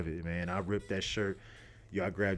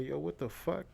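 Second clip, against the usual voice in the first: shock; 7 semitones higher, 4 dB quieter than usual. Retold or imitated. Shock at finding the stain.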